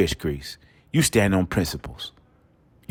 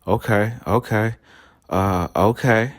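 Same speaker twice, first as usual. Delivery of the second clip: A rapper okays. Retold or imitated. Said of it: "You sound like Lil Jon saying "okay".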